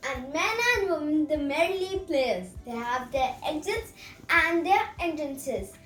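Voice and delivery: measured, theatrical verse delivery; dramatic monologue recitation. Acted. Student performing Jacques' seven ages speech, mildly dramatic recitation. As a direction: recite it like a school stage performance.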